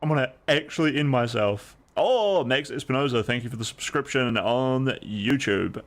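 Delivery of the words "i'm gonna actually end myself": louder, higher mock despair; mock exasperation. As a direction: exaggerate being fed up.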